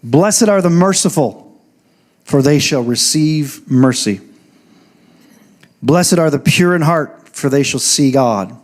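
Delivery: slow, measured reading of a Bible verse; scripture reading. Real, not acted. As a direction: proclaim the verse slowly to a congregation.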